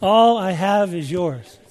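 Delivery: "All I have is yours" slow, "All" stressed; slow, steady emphasis. Shown as a demonstration. Preacher repeating the promise slowly to the congregation. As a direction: say each word slowly and firmly. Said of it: "Key on that word".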